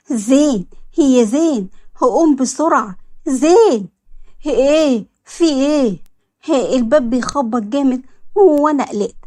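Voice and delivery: panicky calling. Acted. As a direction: call him in a rush, startled awake. Reem wakes alarmed by knocking.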